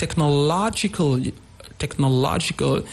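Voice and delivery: technological with the stress on the third syllable, LO; word-stress demonstration. Shown as a demonstration. Teacher giving an example word, technological stressed on LO. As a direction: lean on LO in technological. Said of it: "It takes the word, like".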